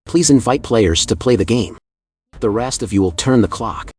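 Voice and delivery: loud, cold commands from the dark; cold orders. Acted. Clown in the darkness orders the players, loud and cold. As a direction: order them in like an icy host. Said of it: "The clown in a cold voice gave orders".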